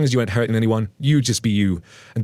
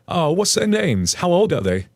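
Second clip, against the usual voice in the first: high, slow nosy mock voice; mock entitled mom; 9 semitones higher than usual. Narrator mimics entitled mother prying about names, high and slow. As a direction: play the pushy stranger, sing-song and high.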